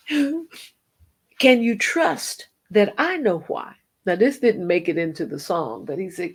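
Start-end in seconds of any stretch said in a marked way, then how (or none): 0.1-3.7 tearful question. Retold or imitated. Voice of God, tearful.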